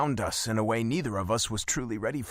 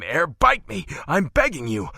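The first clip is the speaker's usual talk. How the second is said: louder, pleading cry of his name; loud begging; 3 semitones higher, 5 dB louder than usual. Acted. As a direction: plead with him, pushing the voice up. I'm begging you.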